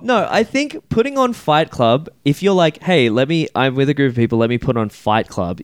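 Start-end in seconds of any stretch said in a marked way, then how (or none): 2.8-5.6 smug. Pretend. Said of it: "you sound intolerable".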